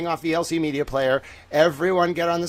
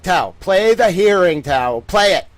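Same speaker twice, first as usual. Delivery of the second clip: impatient viewers; 3 semitones higher, 8 dB louder than usual. Retold or imitated. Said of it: "You're like".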